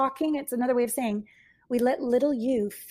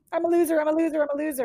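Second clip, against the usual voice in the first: a touch higher and louder, a lightly voiced client chanting it; client's self-put-down; 5 semitones higher, 5 dB louder, much faster than usual. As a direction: lightly mimic her saying it to herself. Client repeats her self-criticism.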